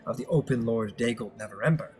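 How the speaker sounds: lightly voiced formal council member; a hint of a measured, courteous envoy giving a report; composed Master Leosin. Game master plays Master Leosin reporting news.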